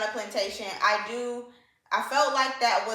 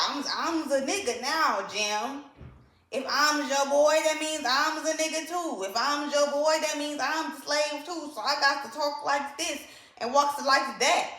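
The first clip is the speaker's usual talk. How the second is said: high mocking imitation of a white boy playing at being Black; mock the boy's put-on swagger, pitched up; mocking Huck; 4 semitones higher than usual. Mocking Huck copying Jim's talk, high and mocking. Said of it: "he talking like".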